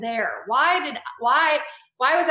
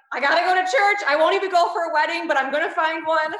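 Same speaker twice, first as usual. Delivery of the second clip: higher and louder, half-joking determination; excited resolve; 6 semitones higher, 3 dB louder than usual. Retold or imitated. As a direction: blurt it like a sudden mission. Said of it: "I was like".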